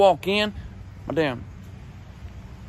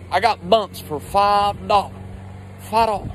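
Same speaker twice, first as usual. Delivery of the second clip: put-on drunk hustler voice; 2 semitones higher than usual. Uncle selling at podium.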